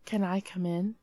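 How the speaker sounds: put-on flat, quiet monotone child. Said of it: "In a monotone voice".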